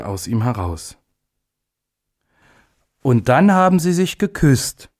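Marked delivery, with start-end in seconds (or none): 3.0-4.9 excited, high-pitched finish to a report; breathless exclamation. A narrator's reading. Little day ending his report to the gathering, breathlessly excited. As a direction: blurt out the big moment, pitched high. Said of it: "rief er am Schluss seines Berichts ganz atemlos".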